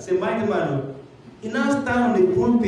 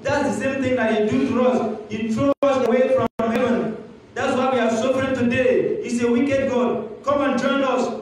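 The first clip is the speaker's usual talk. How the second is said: a lightly voiced Satan, higher and urging; tempting Satan; 5 semitones higher than usual. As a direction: coax him away from God.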